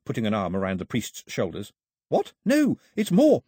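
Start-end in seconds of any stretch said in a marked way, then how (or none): 2.1-3.4 high, loud, slow objection; excited protest. A narrator's reading. Daphne correcting Mao about her find, excited protest. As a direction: protest with high-pitched eagerness.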